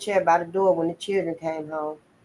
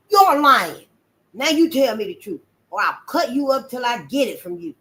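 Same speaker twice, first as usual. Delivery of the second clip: loud, higher menacing shout; angry threat; 4 semitones higher, 4 dB louder than usual. Acted. Master Bill threatening the boy after hitting him, loud.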